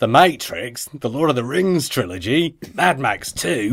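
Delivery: effortful, badly faked Aussie accent; Australian accent. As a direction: read the email in mock Australian. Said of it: "in an Australian accent".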